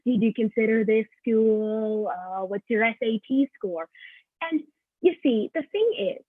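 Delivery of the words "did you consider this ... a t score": slow, drawn-out parental questioning; prying parent. Acted. Parent quizzing a student about college, prying. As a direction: stretch each question out like a nosy parent. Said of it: "parents during the college process".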